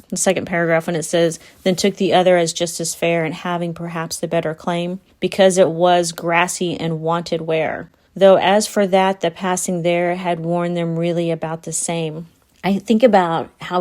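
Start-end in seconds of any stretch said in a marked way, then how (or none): 1.6-12.3 measured poetry reading; poem recitation. Acted. Rereading a favourite stanza to listeners, measured recitation. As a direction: recite it evenly, line by line.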